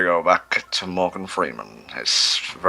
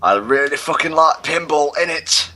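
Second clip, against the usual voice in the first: higher and louder put-on voice; jokey higher voice introducing himself; Donnie impression; 9 semitones higher, 3 dB louder than usual. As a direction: raise the pitch and play a cheeky lad. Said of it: "Do a Donnie impression".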